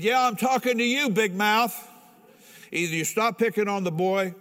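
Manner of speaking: high and loud challenge; retold confrontation. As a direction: square up and call him out. Confronting the bully in the barracks.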